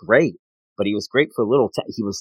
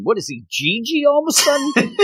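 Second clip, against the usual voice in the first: much higher, amused teasing; laughing; 14 semitones higher than usual. Real, not acted. Host laughing at a character's back bend, much higher. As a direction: crack up at the pose. Joking about a pose.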